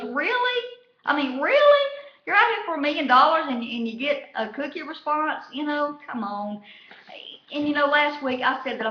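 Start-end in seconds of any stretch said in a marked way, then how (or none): 0.0-5.4 high, loud mock disbelief; hammed-up incredulous host, pitch way up. Host balks at a cookie answer, in high mock disbelief. 5.5-6.6 breathy whisper of disbelief. Retold or imitated. Host gives up on the answer, in a hushed whisper. The host's exasperated close.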